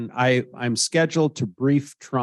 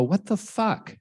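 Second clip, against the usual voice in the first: mock outburst; 8 semitones higher, slower than usual. Blurted reaction in story.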